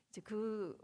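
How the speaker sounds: ordinary talk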